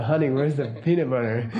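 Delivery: lightly imitated sweet talk; retold sexy way. Wife comes down the hallway to ask, lightly imitated sexy way. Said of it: "talk to you even in a sexy way".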